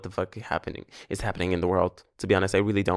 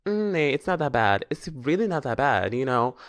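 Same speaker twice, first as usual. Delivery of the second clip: brushing it off. Retold or imitated. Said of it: "И си казвах".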